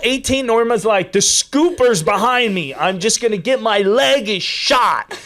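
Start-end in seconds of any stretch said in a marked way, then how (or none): 1.1-5.2 retold yelling. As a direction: imitate a runner complaining at full stretch. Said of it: "She's yelling at me".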